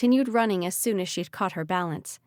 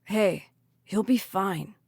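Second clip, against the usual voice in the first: reassuring; slower than usual. Acted. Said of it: "Malachi told her".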